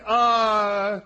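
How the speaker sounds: high, loud, hesitant son checking on his dad; puzzled son. Retold or imitated. Esau asking his trembling father if he's all right, puzzled and loud. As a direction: ask warily if dad is okay.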